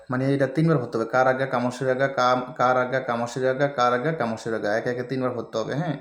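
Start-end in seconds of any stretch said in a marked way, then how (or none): 1.1-4.8 quick repeated recitation. Shown as a demonstration. Teacher shows the line must be said three times, quick recitation. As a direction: run the phrases together briskly.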